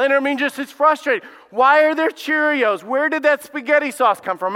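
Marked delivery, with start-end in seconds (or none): 1.5-4.6 a fed-up parent finding a mess; exasperated parent. Retold or imitated. Preacher voicing a parent at the mess, loud exasperation.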